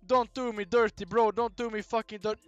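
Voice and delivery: begging the game, loud and high; loud desperate pleading. Real, not acted. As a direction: plead for the roll to land. Pleading as the roll ends.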